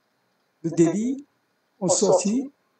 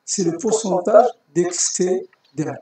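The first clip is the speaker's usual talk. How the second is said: slower, stressing pourcentage; slow, deliberate repeat; slower than usual. Shown as a demonstration. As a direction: repeat it slowly, hitting pourcentage.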